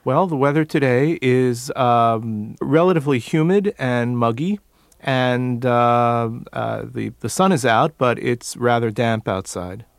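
neutral General American speech; no regional accent; standard American accent. Shown as a demonstration. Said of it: "describe the weather just so we could listen to how he speaks now".

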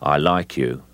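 flat as an icicle; lightly menacing, drained of all emotion; emotionless Cockney gangster. Shown as a demonstration. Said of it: "absolutely no emotion in the voice whatsoever".

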